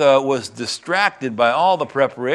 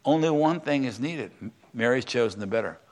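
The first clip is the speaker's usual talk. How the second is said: softer, gentle soothing reply; calming; 4 dB quieter than usual. Retold or imitated. Jesus gently calms the upset Martha, soft and soothing. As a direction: talk her down kindly. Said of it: "And he calmed her down".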